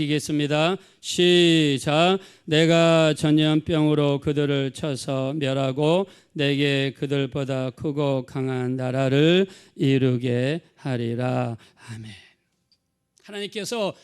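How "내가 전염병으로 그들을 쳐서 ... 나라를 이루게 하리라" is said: slow, loud, measured recitation; scripture reading aloud. Acted. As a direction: lead the congregation through the verse, word by word. Leads congregation reading scripture.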